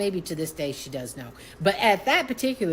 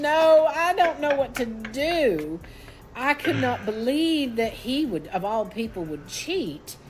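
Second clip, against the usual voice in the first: anguished wail; 6 semitones higher than usual. Retold or imitated. Wife telling her friend about the cheating, wailing. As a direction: cry it out, pitched way up, then easing down.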